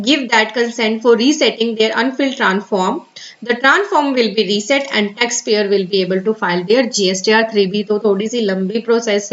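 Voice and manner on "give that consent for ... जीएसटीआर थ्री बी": very slow, careful reading of an official notice. Acted. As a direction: read the advisory word by word. Continues reading the advisory. (धीमे, सावधानी से सरकारी सूचना पढ़ना)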